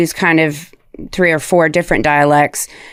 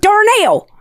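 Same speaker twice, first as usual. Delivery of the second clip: mixed Southern drawl; Joy; 14 semitones higher than usual. Shown as a demonstration. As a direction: draw it out in a Southern accent. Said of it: "that's who Joy was".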